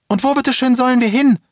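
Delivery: very high, loud indignant screech. A narrator's reading. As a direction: screech it at the police as a desperate challenge. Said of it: "kreischte eine Frau".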